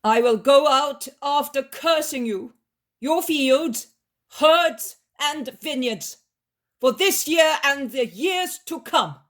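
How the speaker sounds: cursing. Acted. Jesus curses the master.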